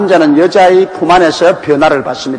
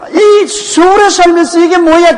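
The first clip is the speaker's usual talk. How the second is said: much higher, slow Gyeongsang dialect quote; Gyeongsang accent; 14 semitones higher, 4 dB louder than usual. Retold or imitated. Preacher mimicking the children's Gyeongsang dialect. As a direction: play the kids scolding in thick Gyeongsang. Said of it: "전부 경상도 사투리를 쓰는".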